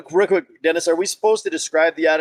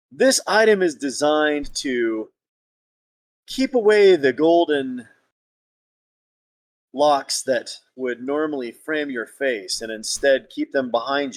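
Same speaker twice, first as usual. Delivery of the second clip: slow, grandiose courtly praise; flattering gallant; much slower than usual. Acted. Suitor describing the item to his lady, slow and grandly flattering. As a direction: draw out each compliment with dramatic pauses. Player resumes flattering speech in role.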